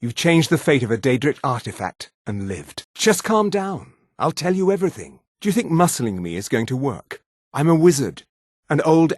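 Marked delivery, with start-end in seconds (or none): 2.9-5.2 high-pitched, hurried plea to calm down; alarmed placating. Acted. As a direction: placate someone threatening you, voice pitched up. Threatened character placates the player.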